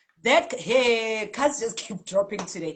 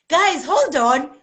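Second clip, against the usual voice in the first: loud, slow call to the group; urgent excited hold on; excited call for attention; 6 semitones higher, 8 dB louder, slower than usual. Real, not acted. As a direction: stop everyone, I just realised. Sudden excited interruption.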